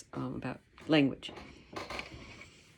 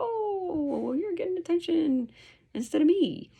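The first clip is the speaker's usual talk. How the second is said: whining dog; 13 semitones higher than usual. Acted. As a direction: whine like a jealous dog. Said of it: "the dog starts to whine and go".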